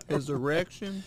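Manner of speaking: mock-innocent questioning; puzzled kid. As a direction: echo it back as a baffled kid. Kid questions dad, acted skit.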